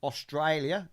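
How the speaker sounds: a quick, light Australian twang on Australia; Australia said in a mild Australian accent. Real, not acted. Co-host slips into an Australian accent naming the city. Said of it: "you said Australia in an accent".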